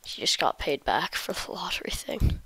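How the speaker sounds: whispering. Real, not acted. Whispered explanation.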